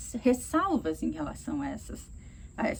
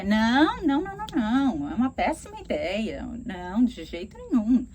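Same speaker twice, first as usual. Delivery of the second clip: loud, rapid no no no; fast, louder, annoyed rejection; angry refusal; 4 dB louder than usual. Shown as a demonstration. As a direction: shoot the idea down hard. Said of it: "bravo, tá agressivo".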